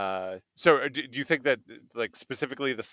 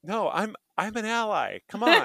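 laughing plea; 10 semitones higher, 5 dB louder than usual. Real, not acted. Protesting he is ally.

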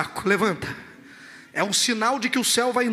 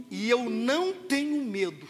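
slow, measured statement of calm; Davi destemido; slower than usual. Acted. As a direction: declare it steadily, without haste. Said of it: "Davi continua falando com os soldados". (declaração calma e pausada, levemente solene)

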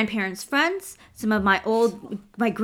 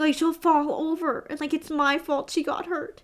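panicked self-blame; 7 semitones higher than usual. Retold or imitated. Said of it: "I was upset because I was like".

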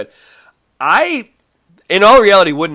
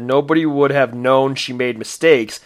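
louder, rising in exasperation; exasperated rant; 6 dB louder than usual. Retold or imitated. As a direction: scold the room, louder on get that. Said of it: "made me think of Office Space".

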